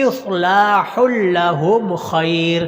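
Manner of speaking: slow chant of اصلاح لہم خیر; لہم stressed with a doubled لام; careful recitation. Shown as a demonstration. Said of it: "یہ مشق کے قابل لفظ ہے".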